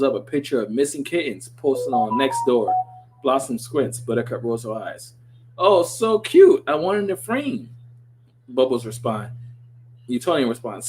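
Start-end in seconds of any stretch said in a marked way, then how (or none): 5.6-7.7 high, slow and gushing; cutesy girl voice. Acted. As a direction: coo it like a sweet little girl. Bubbles cooing over kitten photos.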